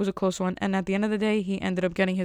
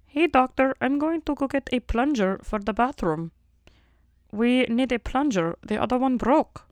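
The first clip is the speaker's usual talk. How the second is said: frog-puppet receptionist voice, pitched up; Kermit; 4 semitones higher than usual. Retold or imitated. Receptionist tells the doctor about the broken plunger, puppet-voiced impression. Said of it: "that sounds like Kermit".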